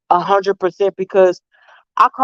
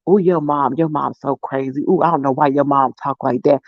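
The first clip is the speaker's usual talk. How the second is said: lower, softened imitation of grandma; grandma confiding; 5 semitones lower than usual. Grandma gossiping to her great-granddaughter about mom, confiding. Grandmother talking to the child, retold.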